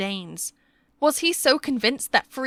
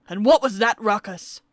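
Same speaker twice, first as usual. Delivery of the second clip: shouted; 4 dB louder than usual. Acted. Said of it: "Ransley shouted".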